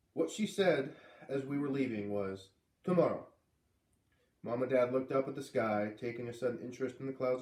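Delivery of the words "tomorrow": Missus Falala. Acted. Old neighbor voiced.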